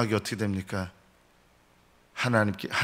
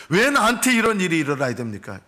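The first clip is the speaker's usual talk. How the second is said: complaining to God; 5 semitones higher, 3 dB louder than usual. Retold or imitated. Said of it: "이런 마음을 갖거든요".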